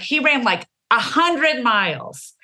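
"like, a hundred miles" drawn out slowly for exaggeration; hyperbolic like. Shown as a demonstration. Explaining hyperbolic like to the host, slow exaggerated emphasis. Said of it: "it's announcing hyperbolic expression".

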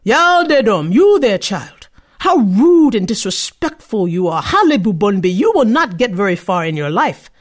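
put-on the tree rebukes a rude child; scolding tree. A tree scolding a rude girl, stern and loud.

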